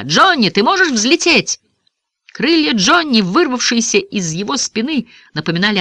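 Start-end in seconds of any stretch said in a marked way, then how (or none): 0.0-1.6 high, eager calling; called-out question. A narrator's reading. Boy asking Johnny to fly, eager high call. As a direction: call a question over to a friend. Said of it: "крикнул я".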